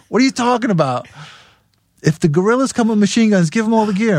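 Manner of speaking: high incredulous retelling; shocked. Retold or imitated. Band repeating the machine gun warning, shocked.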